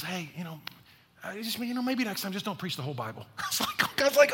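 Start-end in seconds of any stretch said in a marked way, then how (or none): 0.0-3.2 gently. Retold or imitated. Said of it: "she just very gently is like".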